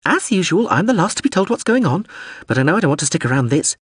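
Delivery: high-voiced peevish muttering; grumbling drone. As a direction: grumble on in a high little robot voice. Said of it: "it was muttering".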